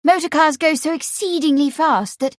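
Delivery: put-on high-pitched, eager young lady; excited young woman's voice; excited explaining. A narrator's reading. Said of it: "Patsy explained excitedly".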